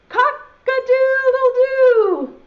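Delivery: loud, high, drawn-out crow; rooster crow. Acted. Teacher leading children in the rooster's call, crowing. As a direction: crow it slowly and loudly like a rooster. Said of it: "then everyone has to say".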